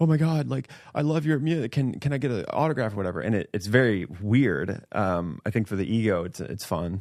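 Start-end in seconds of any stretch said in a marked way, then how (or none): 0.0-2.9 mock shaky, jittery, high, nervous starstruck gushing. Retelling how a fan approached for an autograph: imitating a nervous shaking fan. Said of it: "nervous and shaking".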